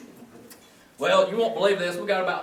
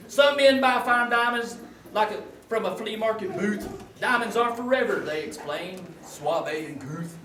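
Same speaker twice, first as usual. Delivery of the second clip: corny poem read with laughs; comic love poem; 3 semitones higher than usual. Acted. Comedian reading his wife a corny love poem, sing-song recital.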